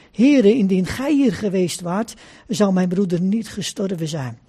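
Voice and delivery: measured, formal Bible reading aloud; Scripture reading. A narrator's reading. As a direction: read the Gospel story to a congregation. Reads a Bible passage aloud. (plechtige Bijbellezing)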